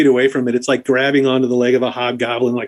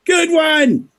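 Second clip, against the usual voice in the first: laughing satyr; much slower than usual. Acted. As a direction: bark a laugh at the joke. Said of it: "and he gives a big old".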